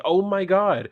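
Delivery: high, loud panicked cry. Acted. Panicked office worker in comic.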